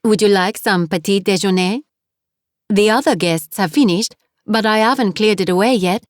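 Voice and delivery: put-on 2 cheerful landlady with a heavy French accent; 3 greet her warmly in thick French-accented English; 4 French guest-house owner, heavy French accent. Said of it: "her accent was heavy".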